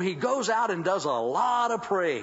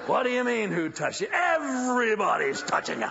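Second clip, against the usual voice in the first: incredulous apostles; 6 semitones higher, 4 dB louder than usual. Acted.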